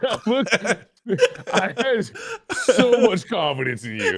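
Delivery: high, laughing through words. Real, not acted. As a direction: laugh while you talk. Laughing at teammate.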